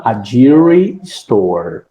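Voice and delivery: "jewelry" modelled slowly and low within the phrase; slow, low teacher's example of "jewelry store"; pronunciation demo. Shown as a demonstration. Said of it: "Só a pronúncia de jewelry".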